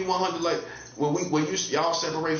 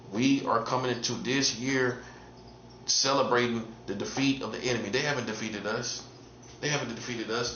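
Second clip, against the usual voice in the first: lower, softer put-on voice; odd put-on voice; 4 semitones lower, 4 dB quieter than usual. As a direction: drop the voice low and soft, as if under a spell. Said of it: "this is why I'm talking like this".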